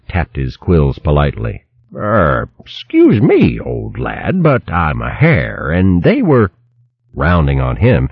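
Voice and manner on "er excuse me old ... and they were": put-on polite old hare. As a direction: correct him politely, a bit frail. Hare politely corrects hedgehog.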